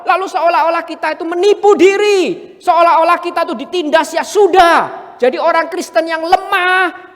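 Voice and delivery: fiery sermon, words hammered out; preaching at full force. Acted. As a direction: preach it hard to the congregation.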